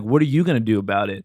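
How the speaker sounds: low, lightly voiced confrontational stranger; retold challenge. Man on the train challenges the storyteller, mildly acted challenge. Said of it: "And he's like".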